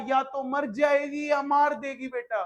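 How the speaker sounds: hammed-up threat, shouted; a playful dramatic yell about maths; mock dramatic warning. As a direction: warn them like a film villain.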